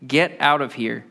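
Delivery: a firm but mild command; exclamation point. Shown as a demonstration. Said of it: "with an exclamation point".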